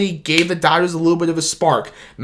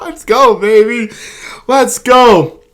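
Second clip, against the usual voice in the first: louder, higher hype chant; excited cheer; 5 semitones higher, 4 dB louder, slower than usual. Real, not acted. Vlogger hyping fans over the win: excited cheer. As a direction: pump up the audience. Celebrating championship.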